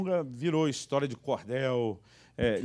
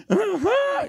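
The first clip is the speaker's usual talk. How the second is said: very high, louder little aham; high child voice; 7 dB louder than usual. Retold or imitated. Son telling mother it healed, very high. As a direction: squeak a smug child's yes.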